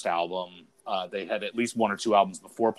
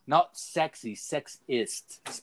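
mock British rock star accent, slightly higher; rock mockumentary quote; 9 semitones higher, 3 dB louder, slower than usual. Quoting a rock mockumentary to his co-host in a light mock British accent. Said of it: "none of them were British".

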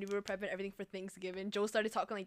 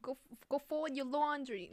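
put-on higher-pitched, tentative Staten Island accent; Staten Island mom; 6 semitones higher, slower than usual. Friend attempting a Staten Island mom ordering chores. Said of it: "Staten Island mom".

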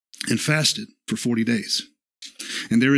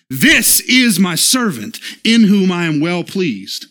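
a hint of a booming heavenly voice, slow and louder; 4 semitones higher, 4 dB louder than usual. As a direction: proclaim it slowly from above, a light divine voice. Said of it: "you hear the voice from heaven going".

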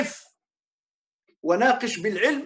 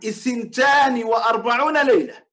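raised, emphatic quote of the hadith; forceful quote; 2 semitones higher, 3 dB louder than usual. Real, not acted. Sheikh hammering the hadith at Rashid, loud. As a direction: hammer the number home.

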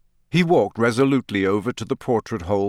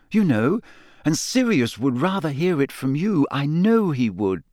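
Hermione voice; 5 semitones higher than usual. Acted.

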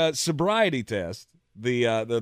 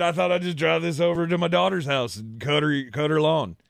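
badly faked English accent, raised pitch; terrible English accent; 4 semitones higher than usual. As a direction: attempt an English accent and miss. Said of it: "it was a terrible English accent".

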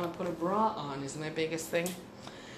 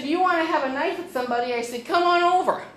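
higher, louder, fast taunting yell; daring yell at the knife guy; retold crazy scream; 8 semitones higher, 7 dB louder than usual. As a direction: yell the dare across the field. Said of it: "I screamed this at them like a crazy person".

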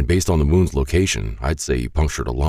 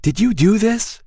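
angry accusation. A narrator's reading. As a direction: hurl the accusation at him. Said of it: "she said".

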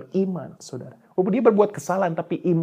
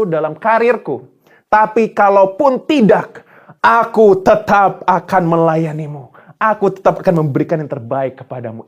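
model prayer; 3 semitones higher, 7 dB louder than usual. Shown as a demonstration. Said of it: "Saudara kalau doa begini dong".

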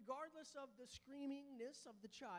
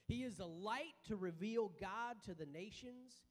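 scripture reading; 3 semitones lower than usual. Acted. Reads Luke chapter two.

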